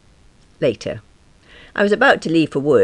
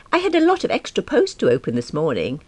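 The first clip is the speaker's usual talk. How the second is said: hinting; 5 semitones higher than usual. Acted. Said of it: "I hinted".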